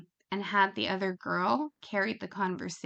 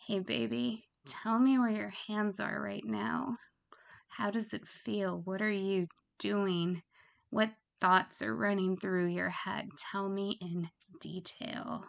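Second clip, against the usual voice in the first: gentle sultry. Shown as a demonstration. Phone sex worker coaxing a caller, gentle and hushed. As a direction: coax the caller tenderly with a hushed line. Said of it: "say it kind of like that. You wanna be gentle".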